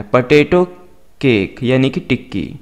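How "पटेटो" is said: पोटैटो as puh-TAY-toh, ending on a rise; correct potato pronunciation. Shown as a demonstration. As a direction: say पोटैटो with a light first syllable. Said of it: "इस तरह से आपने pronounce करना है". (पोटैटो, सही उच्चारण में 'पटेटो')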